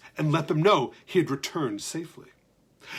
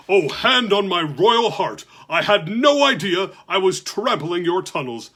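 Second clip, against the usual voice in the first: apologetic giant; 4 dB louder than usual. Acted. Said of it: "said the giant".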